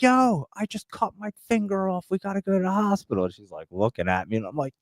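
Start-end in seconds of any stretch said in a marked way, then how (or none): 0.0-3.2 calling over a loud go-kart, pitched high; mock call to his wife across the yard, raised pitch; high-pitched imitation of shouting over noise; retold yell over engine. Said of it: "yelling at her 'cause the go-kart's loud".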